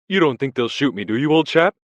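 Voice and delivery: high, loud, pleading and scared; eager frightened plea. Acted. Parsons begs Winston, high and frightened, not to be shot. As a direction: beg for reassurance. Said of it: "eagerly appealing to him".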